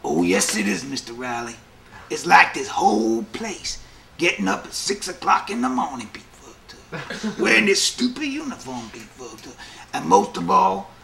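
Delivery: lightly voiced inmate explaining, half laughing; a hint of a weary prisoner's rant; mildly imitated inmate listing his troubles; inmate's reply. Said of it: "He goes".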